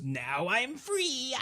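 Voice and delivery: very slow, high, drawn-out wail; ghost. Retold or imitated. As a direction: ghost crying out in release, hammed-up. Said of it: "the ghost goes".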